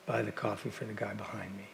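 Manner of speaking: hushed, unvoiced whisper. Speaker quietly ordering coffee for the rude driver, whispered. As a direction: whisper it to the barista.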